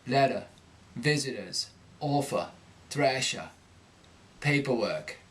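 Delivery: unstressed r dropped, Cockney; Cockney accent. Shown as a demonstration. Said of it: "two dropped R's in that word".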